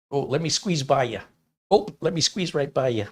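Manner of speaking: mildly put-on polite Midwest accent; polite Midwesterner. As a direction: excuse yourself with Upper Midwest politeness. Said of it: "they're very polite".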